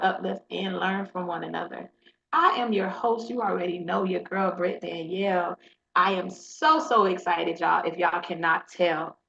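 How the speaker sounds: polished podcast host welcome; podcast intro read. Acted. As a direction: read the show opener smoothly.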